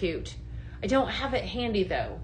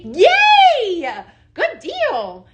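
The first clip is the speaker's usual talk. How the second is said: excited yay; 10 semitones higher, 8 dB louder, much slower than usual. Real, not acted. Cheering a good deal.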